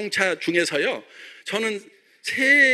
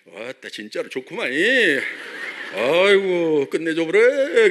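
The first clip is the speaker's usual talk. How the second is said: Jeolla dialect; 2 semitones lower, slower than usual. Retold or imitated. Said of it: "막 이렇게".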